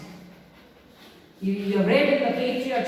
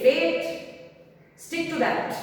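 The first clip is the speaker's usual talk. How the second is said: praying to fate; 6 semitones higher, slower than usual. Acted. Gonzalo prays to fate.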